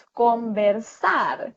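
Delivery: "conversar" said slowly with "sar" stretched; stress on last syllable. Shown as a demonstration. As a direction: lean on the final syllable of "conversar". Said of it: "Siempre al final se va para arriba el acento". ("conversar" lento, con fuerza en "sar")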